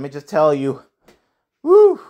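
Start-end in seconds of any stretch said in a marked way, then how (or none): 1.6-2.0 high loud whoop; excited whoop. Real, not acted. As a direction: let out a big cheer. Excited cheer before breath remark.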